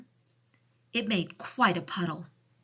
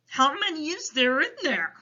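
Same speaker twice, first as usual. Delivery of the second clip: loud, higher, concerned giant voice; troubled storybook giant; Big Friendly Giant; 9 semitones higher, 5 dB louder than usual. A narrator's reading. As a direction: ask with big pitying emphasis. Giant questions Sophie.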